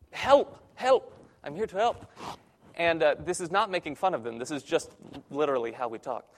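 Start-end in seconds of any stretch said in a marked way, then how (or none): 0.1-2.1 high, emphatic broken-English explanation. Retold or imitated. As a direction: get through to a beginner in broken English, pitched up. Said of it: "in my best broken English".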